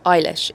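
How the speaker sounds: "Eilish" starting with an eye sound, like a famous singer's name. Shown as a demonstration. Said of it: "but hers was pronounced".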